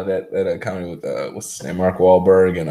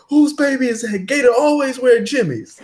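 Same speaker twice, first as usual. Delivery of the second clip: high, mock pimp voice, raised pitch; Gator's voice; 9 semitones higher than usual. Will Ferrell's pimp past, mock pimp voice. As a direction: ham up the pimp flashback line. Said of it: "he's like".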